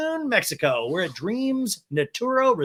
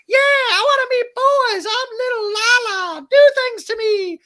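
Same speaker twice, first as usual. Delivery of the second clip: Lala impression; 8 dB louder than usual. Boy-hungry friend demanding attention, mock shrieking. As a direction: squeal it at the top of the voice, wildly exaggerated. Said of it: "And Lala goes".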